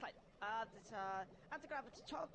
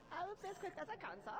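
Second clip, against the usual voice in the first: put-on German accent; 4 semitones higher than usual. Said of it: "pretty bad German accent".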